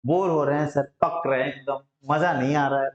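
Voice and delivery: mildly bored. Acted. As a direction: lightly act out a bored pupil grumbling to the teacher. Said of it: "bore होना समझते हैं ना". (हल्की ऊब भरी, नीची आवाज़)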